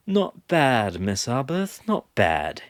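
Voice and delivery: gleeful, relishing each not bad; grinning praise, barely contained; wild delight. A narrator's reading. Caleb, delighted by the book, praises Kendra gleefully. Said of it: "with unmistakably wild delight".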